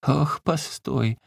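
slow, high, drawn-out groan; a feeble high old-woman whimper. Acted. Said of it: "застонала старуха".

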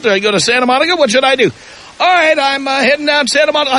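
caller's progress reports. Retold or imitated. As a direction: rattle off the updates like an eager caller on the road. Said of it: "gave me progress reports".

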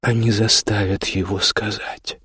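gentle, slow reply; very gently. A narrator's reading. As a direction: break it to her tenderly. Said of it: "очень мягко ответил".

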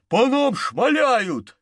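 high, slow shouted warning; alarmed shout. A narrator's reading. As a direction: yell that they're being shot at. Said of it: "крикнул Запад".

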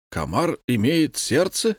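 can't believe a mosquito has a heart; amazed question. A narrator's reading. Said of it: "изумился комендант".

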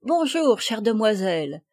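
lightly effusive hostess's hello; exclaimed greeting. Acted. Hostess greets the arriving girls, exclaiming.

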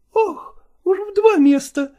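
high, reproachful female voice; jealous lover reproaching, high; jealous woman. Acted. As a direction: accuse him, pitched high. Nastina jealous.

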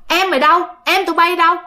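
lightly acted demand from a father; father demanding answers. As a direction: put the questions sharply to the children. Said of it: "ổng mới hỏi".

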